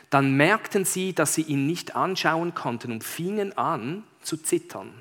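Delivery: measured, expressive read-aloud; story narration. Acted. Pastor reads Narnia to the congregation, expressive storytelling. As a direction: read it out like a tale, leaning on key words.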